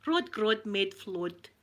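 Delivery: "Rod Grod Med Flod" slowly in one run; joined-up attempt. Shown as a demonstration. Second try, run together.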